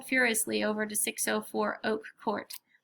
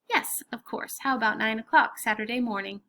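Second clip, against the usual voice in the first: businesslike voice. Acted. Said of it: "in my most businesslike voice".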